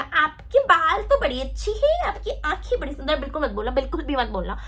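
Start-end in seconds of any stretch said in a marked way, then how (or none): 0.0-3.2 slow, drawn-out mock flattery; gushing compliment. How not to praise a girl, gushing mock flattery. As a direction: overdo the compliment, stretching the words. Please ऐसे मत बोलना.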